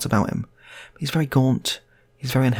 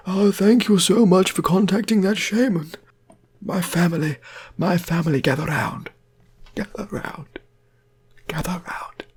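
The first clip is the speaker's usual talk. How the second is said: eerie pitched-up undead call, loud to hushed; returned dead man's voice; 10 semitones higher, 3 dB louder than usual. Acted. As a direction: wail it slowly, then let it die away. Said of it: "that is what he's speaking like".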